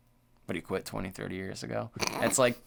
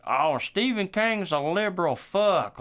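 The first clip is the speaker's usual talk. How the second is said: high, slow sneering voice mimicking a critic; mocking critic; 7 semitones higher, 4 dB louder, slower than usual. Mocking the critics of Stephen King, high, slow and sneering. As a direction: put on a snide voice to mock the people who say it. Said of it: "people tell me".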